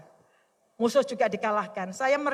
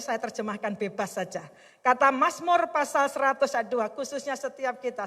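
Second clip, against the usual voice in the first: normal talking voice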